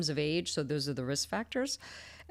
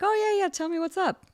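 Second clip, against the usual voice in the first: high, louder, eager colleague; cheery, unsuspecting; 6 dB louder than usual. Retold or imitated. Surgeon asking colleague about a new patient, cheery. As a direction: imitate an upbeat surgeon pitched way up.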